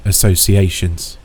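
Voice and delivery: associations slow, each syllable weighted; stress on associations. Acted. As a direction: lean hard on associations. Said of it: "I want to stress that word".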